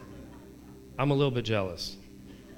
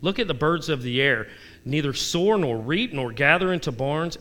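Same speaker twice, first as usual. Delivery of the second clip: raised, earnest Bible reading; preacher reading a psalm; scripture reading; 3 semitones higher than usual. Acted. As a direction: proclaim the psalm.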